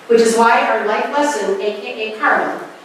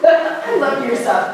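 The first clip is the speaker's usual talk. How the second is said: higher, drawn-out laughing praise; 5 semitones higher, slower than usual. Real, not acted. Praising Bobby Stevens after reading a quote, laughing. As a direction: say it slowly through a real laugh.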